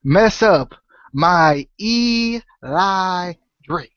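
slow, drawn-out hammed-up indignation; mock outrage. Scolding the co-host for ruining her Eli Drake, slow mock outrage. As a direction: stretch every word, pretend wounded.

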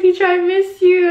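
high-pitched, mock-tearful "miss you"; retold fond greeting. Retelling a fond fan call.

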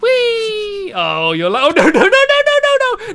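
high, loud panicked nos; panicked shouting. Real, not acted. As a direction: yell in panic. Falling, pushed by partner.

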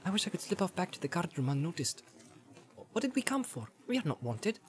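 small, high, hushed hobbit grumble; Pippin muttering. Acted. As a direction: grumble softly in a high little voice. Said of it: "muttered Pippin".

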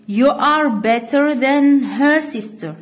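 slow, spelled-out teacher delivery, word by word; slow dictation. Shown as a demonstration. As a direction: read the rule and example slowly for the class to copy. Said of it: "مثلًا،". (إملاء بطيء للتلاميذ)

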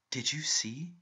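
a whispered, urgent did you see; sudden hushed question. A narrator's reading. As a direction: hush it out suddenly. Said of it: "he asked suddenly".

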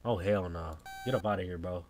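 normal talking voice

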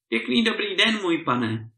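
high, courteous greeting that drops at the end; over-courteous servant's hello; polite. A narrator's reading. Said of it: "odpověděl zdvořile Šibal".

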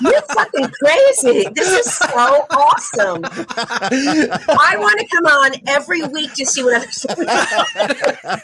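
high, slow words through laughter; cracking up with delight; laughing high delighted gush. Real, not acted. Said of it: "laughing reaction".

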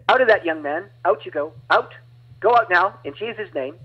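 commanding. Retold or imitated. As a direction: cast it out with authority. Preacher casting out demon.

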